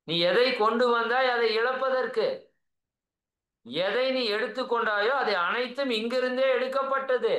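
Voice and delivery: lightly declaimed holy quotation; Gita recitation. Acted. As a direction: recite it as scripture. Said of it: "அதான் கீதை அழகா சொல்லுது".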